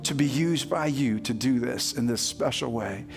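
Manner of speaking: closing a congregational prayer. Real, not acted. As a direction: pray earnestly to the Lord, voice kept low.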